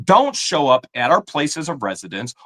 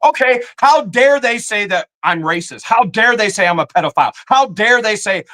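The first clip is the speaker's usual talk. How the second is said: indignant; 5 semitones higher than usual. Real, not acted. Indignant rant turning phrase back.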